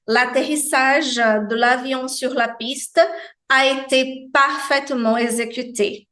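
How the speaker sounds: "sur" said with rounded lips and an I sound; French demo. Shown as a demonstration. Teacher reads the landing sentence, careful French. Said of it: "aqui sim a gente tem o som do francês".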